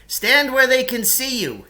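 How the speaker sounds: high, loud call from down in a pit; Lance shouting up from the pit. Acted. Trapped man calling up to the boys, loud and high. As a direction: yell up to the boys above. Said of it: "he said".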